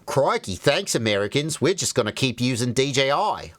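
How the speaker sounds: light mock Australian accent for foreign partners. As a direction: toss it off in a casual Australian accent. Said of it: "I don't know why they were Australian".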